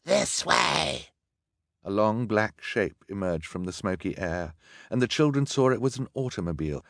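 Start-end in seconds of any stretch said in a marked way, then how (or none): 0.0-1.1 high-pitched call from afar. A narrator's reading. Villain beckons his gang to the car, calling out. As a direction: call someone over through smoke. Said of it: "a voice call out of the smoke".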